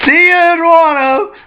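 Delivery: high, loud cheery shout; cheerful call. Retold or imitated. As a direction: call out as you leap away. Luffy calls out while jumping.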